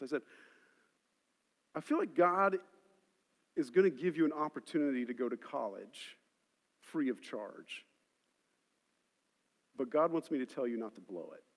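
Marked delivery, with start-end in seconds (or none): 1.7-11.4 gentle prophecy. Retold or imitated. Retells giving a teenager a prophecy.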